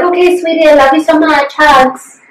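a hint of doting mother; lightly voiced mom. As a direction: read it as mom sending love. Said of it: "my mom was like".

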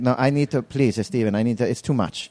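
a hint of an overwhelmed father; mild mock begging; imitating dad. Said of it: "And he's like".

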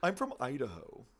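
lightly put-on deep American accent; mock an actress's attempt at American; Carrie Mulligan. Co-host claims Idaho roots, mock American accent. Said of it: "Her voice is real deep when she does American accents".

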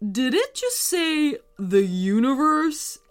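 startled question, high and far from the narrating voice; taken aback, voice jumping up; wide-eyed disbelief. A narrator's reading. Dad questions the car's destination, astonished. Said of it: "asked a wide-eyed M J's dad".

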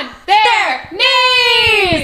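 giddy high squeal. Real, not acted. Giddy high laughing voices.

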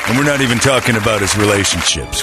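gruff macho Marine colonel, lightly voiced; hard-nosed colonel sneering at the crew; Colonel Nathan Jessup. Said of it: "It's Colonel Nathan Jessup".

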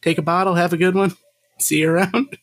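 high, breezy send-off; cheery brush-off. Pretend. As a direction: wave them off with a bright goodbye. Pretend greeting at trade booth.

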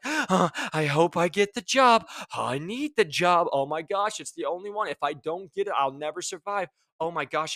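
half-hearted impression of a needy candidate spiralling; anxious job seeker. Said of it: "And you're like".

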